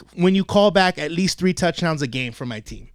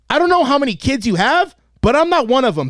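higher-pitched, indignant comeback; retold angry retort; 5 semitones higher than usual. Coach retelling his comeback to the yelling woman, indignant. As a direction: act out telling her off.

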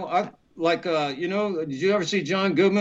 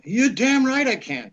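retold eager yes; 7 semitones higher than usual. Accepts the job eagerly.

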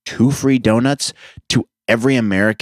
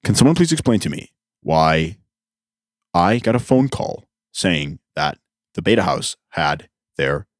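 Don impression; 5 semitones lower than usual. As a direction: drag it out like a self-important faculty advisor. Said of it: "He'd go like this".

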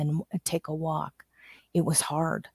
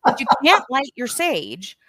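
playful exclamation; 7 semitones higher, 4 dB louder than usual. Pretend. Mock outrage at lighting sage.

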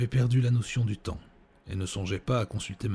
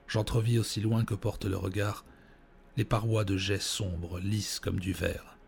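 grand tragic stage delivery. Acted. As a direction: recite it like a doomed tragic poet. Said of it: "je me mis à déclamer ces vers".

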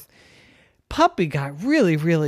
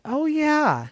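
Rhonda's voice; 5 semitones higher than usual. Acted. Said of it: "And Rhonda said".

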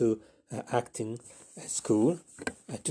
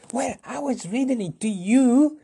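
much higher, plaintive; defensive whine; 13 semitones higher, 4 dB louder than usual. Acted. Flapperjack defending himself, high and whiny. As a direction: protest your innocence. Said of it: "That was the voice of Flapperjack".

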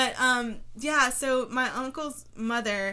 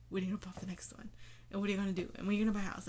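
whispered nag; 2 semitones lower, 6 dB quieter, much faster than usual. Retold or imitated. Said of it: "I feel like".

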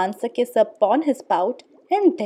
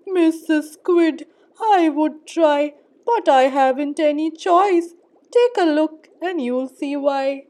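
glum fish voice; 4 semitones higher, 5 dB louder than usual. Acted. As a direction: drag it out like a sulky fish. Pout fish answers squid, slow.

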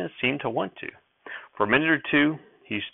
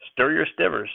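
put-on old prospector; 6 semitones higher than usual.

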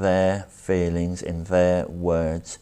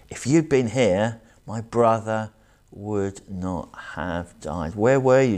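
grieving reproach; 2 semitones higher than usual. Retold or imitated. Preacher voices Mary's grieving reproach.

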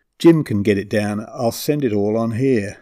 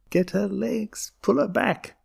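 put-on high, urgent child's shout without full volume; 10 semitones higher than usual. A narrator's reading. Girl urging her sister to restrain grandmother, high mock shout. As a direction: call out urgently, pitch way up. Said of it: "Sabine was shouting".

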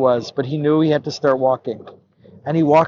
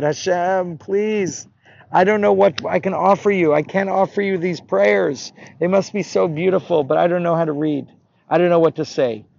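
higher, pleading prayer; earnest plea; 4 semitones higher than usual. Acted. Unlettered boy praying to God, earnest plea. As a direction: implore like a child who has nothing to give.

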